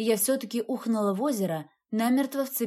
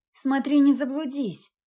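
louder call after the cat; 4 semitones higher, 5 dB louder than usual. Acted. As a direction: shout it after him. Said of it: "крикнула я".

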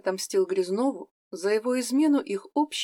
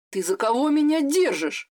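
roaring; 5 semitones higher, 3 dB louder than usual. Acted. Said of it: "почти взревел уязвлённый Грязнов".

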